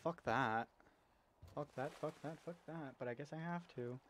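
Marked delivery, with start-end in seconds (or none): 0.0-0.7 a firm loud fuck that; louder first take against the muttered repeats; emphatic curse. Real, not acted. Reacting to scary game monster. 1.5-2.9 softer and softer, fuck that fading down; muttered repeats. Real, not acted. Repeating curse, fading away.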